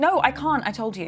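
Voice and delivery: panicked refusal. Acted. Telling uncle she can't do this, panicked. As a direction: protest in rising fear. Panicking about a killer's threat.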